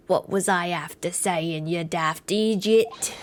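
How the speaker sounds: lightly put-on shifting accent, slow on the insult; a touch of a muddled accent for an indignant client; McGilded. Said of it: "I keep changing his accent".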